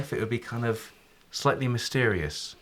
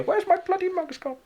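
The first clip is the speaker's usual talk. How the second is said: grumpy shopkeeper. Acted. GM voices angry shopkeeper offstage.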